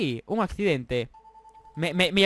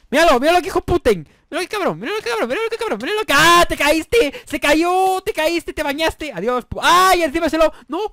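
much higher, loud excited yelling; gleeful shouting; 8 semitones higher, 6 dB louder than usual. Real, not acted. Gamer watching a rival fall off, high excited shouting. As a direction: crow at the fall at full pitch.

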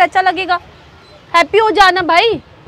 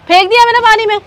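heated, raised-voice declaration; angry defiance; 2 semitones higher, 4 dB louder than usual. Acted. Girlfriend says she threw phone in water, angry defiance. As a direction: throw it in his face, defiantly.

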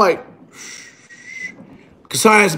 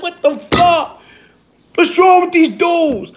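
high, slow, laughing incredulity; laughing disbelief; 9 semitones higher, slower than usual. Real, not acted. Vlogger baffled by self-commenting trolls, laughing disbelief.

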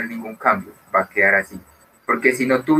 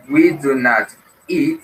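slow model sentence; 4 semitones higher, 4 dB louder, slower than usual. Shown as a demonstration.

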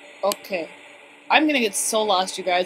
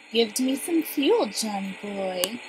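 Johnny voice; slower than usual. Pretend. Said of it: "my best Johnny voice".

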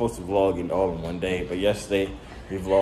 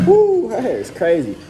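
loud, slow teasing hoot; mocking; 10 semitones higher, 7 dB louder than usual. Real, not acted. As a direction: roast her hair with a whoop. Roasting her hair.

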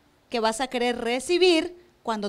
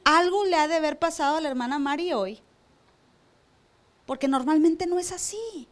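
kindly inner thought. Retold or imitated. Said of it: "la otra opción es decir".

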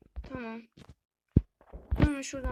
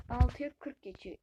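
louder, ALTIYA hit hard in disbelief; "Altıya" punched loud in real shock; shocked exclamation; 5 dB louder than usual. Real, not acted. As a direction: blurt the time out, startled. Realizes how late it got.

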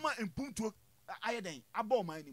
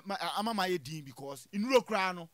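normal talking voice

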